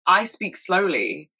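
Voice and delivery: a hint of her father, slowly and deliberately; lightly imitated dad speaking slowly; dad's slow speech. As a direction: mimic dad, stretching each word out. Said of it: "And he was like".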